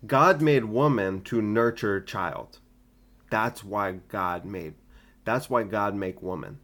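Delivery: put-on slow, broken East Asian accent; mock East Asian accent, slow. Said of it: "you sound so Asian".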